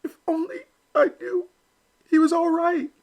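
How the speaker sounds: high little duckling voice, voiced not whispered; small worried Elmer, talking to himself; a hint of a hushed aside in a high voice; Elmer whispering to himself. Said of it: "Elmer whispered to himself".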